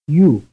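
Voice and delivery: loud, single syllable; glide plus vowel. Shown as a demonstration. Teacher quizzing students.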